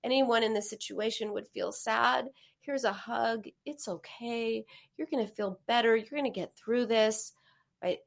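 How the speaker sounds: soft, soothing reassurance; reassuring comfort. Shown as a demonstration. Therapist demonstrating self-comfort, soft and soothing. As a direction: reassure a sad child softly. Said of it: "This is my very technique".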